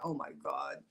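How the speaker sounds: breathy whispered aside. Real, not acted. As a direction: whisper it in disbelief.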